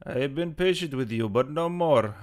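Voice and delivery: put-on menacing character voice; Barkov. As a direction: warn them as a game villain. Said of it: "see if I can do it".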